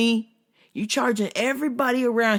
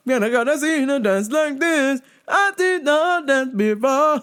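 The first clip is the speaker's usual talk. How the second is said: mock Jamaican dancehall accent; 5 semitones higher than usual. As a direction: tease like a dancehall hype man, in Jamaican. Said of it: "Don't play a dancehall artist".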